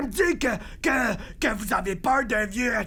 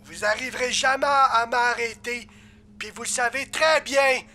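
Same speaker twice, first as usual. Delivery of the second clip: villain bravado with a hint of doubt; doubtful villain threat. Demon asked to repeat his threat, voice slightly doubtful. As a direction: threaten them, slightly unsure of yourself. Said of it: "On sent le doute dans votre voix".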